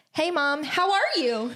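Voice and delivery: high sing-song "Hey, Mom, how are you?"; put-on lilt. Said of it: "Why are you talking like that?".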